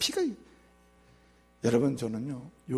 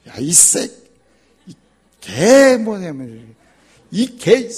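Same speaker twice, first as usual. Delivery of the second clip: mock angry father; 7 semitones higher, 13 dB louder, much slower than usual. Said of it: "아빠가 화가 난 거예요".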